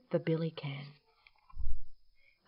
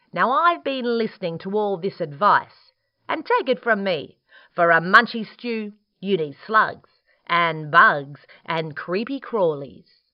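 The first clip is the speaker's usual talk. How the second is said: bristly echidna; 3 semitones higher, 6 dB louder than usual. Acted. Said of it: "he bristled".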